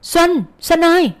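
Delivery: high, drawn-out call of a name; narrator's restrained shout after someone; calling out loudly. A narrator's reading. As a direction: call out to her, stretching it. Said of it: "Sau đó Nghĩa hét lớn".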